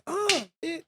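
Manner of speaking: small, high, softened scream; mock scream. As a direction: pretend fight scream, kept quiet. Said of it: "you might scream and say".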